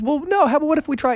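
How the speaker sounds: lightly mimicking mom's patient teaching voice; different voice. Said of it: "talks with a different voice".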